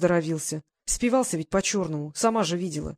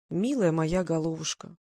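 tender; 3 semitones lower, slower than usual. Acted. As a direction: coo it gently to her. Lazar tenderly teases Glasha.

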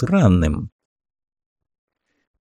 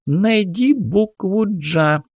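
high slow squeaky toy voice; squeaky cartoon voice; 10 semitones higher, slower than usual. A narrator's reading. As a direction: chirp it like a kids' learning toy. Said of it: "писклявым мультяшным голосом". (писклявый мультяшный голос)

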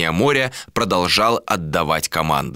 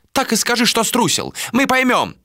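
high, scornful challenge; spat taunt. A narrator's reading. Mate taunts the captain, high scornful accusation. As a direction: taunt him with pitch well up. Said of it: "выплюнул Йола".

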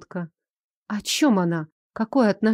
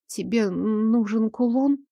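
trembling voice; slower than usual. Acted. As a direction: ask it with a frightened tremble. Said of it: "Дрожащим голосом высказала я". (дрожащий голос)

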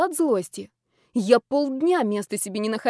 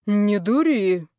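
scolding uncle; 4 dB louder, much slower than usual. Acted. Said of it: "погрозил мне пальцем дядя".

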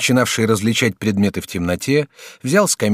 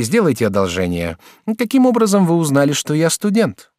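lightly raised student voice; young student Jacques; 3 dB louder than usual. Acted. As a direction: play the courteous young student. Student asks.

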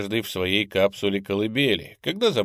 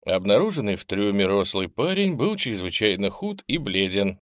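usual speaking voice

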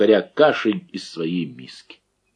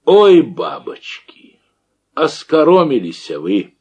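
laughing out; 6 semitones higher, 7 dB louder, slower than usual. A narrator's reading. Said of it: "покатываясь со смеху".

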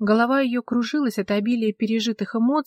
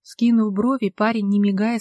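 ordinary delivery

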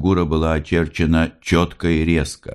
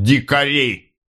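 high, scornful "Дикари!"; sneering officer; 10 semitones higher, slower than usual. A narrator's reading. Officer sneering at the women, high. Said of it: "усмехаясь, сказал".

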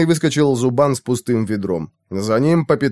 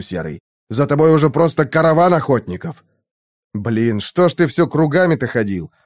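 urgent alarm. Acted.

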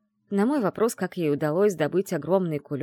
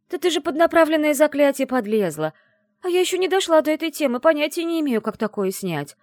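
agitated outburst; 11 semitones higher, 7 dB louder than usual. Acted. Friend panicking about the spell.

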